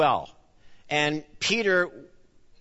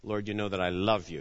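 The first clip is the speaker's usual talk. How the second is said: humble Peter; 8 semitones lower, 6 dB quieter, faster than usual. Retold or imitated. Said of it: "he just says".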